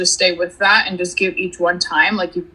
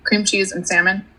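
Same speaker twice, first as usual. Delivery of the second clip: eating crackers. Real, not acted. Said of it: "sorry, I'm eating crackers".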